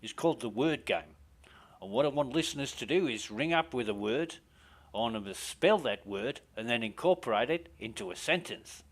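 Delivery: rough Australian radio host patter; upbeat Australian DJ, self-mocking; jokey Australian presenter voice; Australian accent. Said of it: "my Australian accent's shit".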